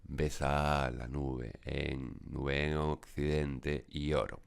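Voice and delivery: slow demonstration, "nube en occidente" with linked vowels; slow, deliberate verse reading with vowels run together; synalepha. Shown as a demonstration. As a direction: draw out the joins in "nube en" and "occidente y oro". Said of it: "Todos estos lo pronunciaríamos en una única sílaba".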